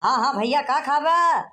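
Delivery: calling out to a hard-of-hearing man. Acted. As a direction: lift the last words into a shout. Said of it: "चिल्लात का यार".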